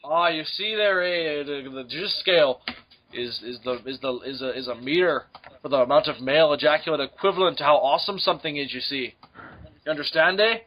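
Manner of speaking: folksy mock Canadian with "eh"; mock Canadian accent. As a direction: joke Canadian explaining haltingly. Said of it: "I'm talking like a good-hearted Canadian".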